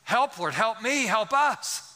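high, urgent calls for help; crying out. Acted. Preacher calling to God for the congregation, crying out. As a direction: call out in rising, pleading bursts. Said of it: "We need to cry out to him".

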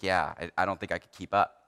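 low, soft, worn-out mock sigh of a tired colleague; exhausted. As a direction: play him as drained and spent. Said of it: "And he's like".

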